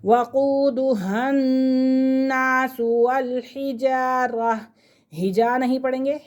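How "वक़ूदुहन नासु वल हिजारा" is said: drawn-out recitation with held doubled letters; teacher reciting for pupils; slow recitation. Shown as a demonstration. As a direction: recite slowly, holding every doubled letter. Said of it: "मिलकर पढ़ा जाता है".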